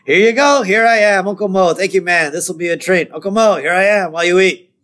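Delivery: upset but high singsong patter; Moe. Retold or imitated. Upset Moe serving fries again, high strained patter. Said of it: "Moe's very upset".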